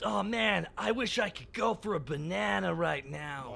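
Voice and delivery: slow, lightly voiced Donkey Kong; a hint of the ape, drawn out; Donkey Kong impression. Host showing friends his Donkey Kong impression, slow. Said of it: "That's my Donkey Kong impression".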